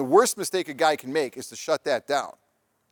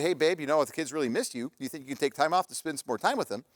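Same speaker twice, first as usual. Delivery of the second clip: softer, coaxing appeal to a partner; gentle request; 4 dB quieter than usual. Acted. Wife asking husband to see the kids, gentle request. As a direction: ask it kindly, easing off. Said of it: "it's the how you say it".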